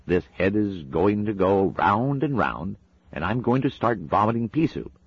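the angel pleading through Madam Tracy, prim and earnest; demon's voice. Acted. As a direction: coax him kindly, fussy and polite. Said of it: "in the voice of the demon".

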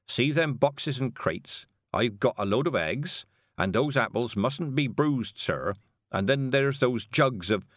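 a touch of slow rustic driver; mildly protesting working man; lightly voiced carter. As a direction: explain patiently as a plain country carter, slightly slowed. Carter explains his load.

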